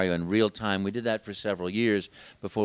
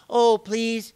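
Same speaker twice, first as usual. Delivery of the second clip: put-on pleading children; 12 semitones higher, 7 dB louder than usual. Children begging.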